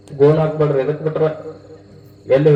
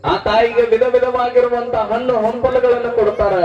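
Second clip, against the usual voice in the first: devotional storytelling. Acted. Preacher telling listeners of Sirasamma's pregnancy, devotional storytelling. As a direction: tell a sacred legend in drawn-out, chanting phrases. Narrates the saint's birth legend.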